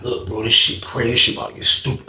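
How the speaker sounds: hushed secret. Retold or imitated. Homeboy whispering secret in cell.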